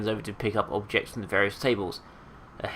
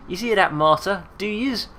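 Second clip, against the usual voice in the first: put-on crowing old eccentric; 9 semitones higher, 5 dB louder than usual. Marta crowing to herself.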